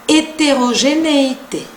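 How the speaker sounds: Heterogénéité carefully, each E a closed é; careful French Heterogénéité with matching é sounds; five identical E's. Shown as a demonstration. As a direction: model Heterogénéité in French, silent h, syllables distinct. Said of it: "las cinco E se pronuncian igual".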